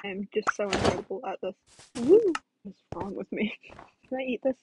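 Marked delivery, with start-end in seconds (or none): 2.0-2.3 high loud woo; cheer. Real, not acted. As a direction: whoop with joy.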